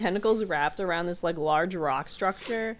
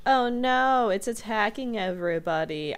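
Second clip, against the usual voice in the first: mock radio host; 3 semitones higher than usual. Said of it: "he gets on the mic and he, like, says".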